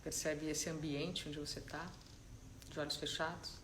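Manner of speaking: calm, unhurried guidance with long silences; soft-spoken meditation leader, letting each instruction settle; guided meditation. Real, not acted. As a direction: ease them gently into stillness, leaving space between phrases.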